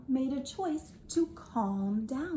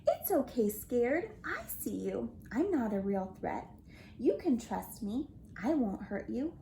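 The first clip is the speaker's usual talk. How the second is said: reassuring. Acted. Yeti soothes Scared.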